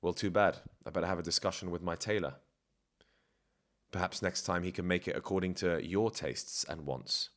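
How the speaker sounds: calm, condescending put-down with long pauses; James Bond. Retold or imitated. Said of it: "condescending and calm".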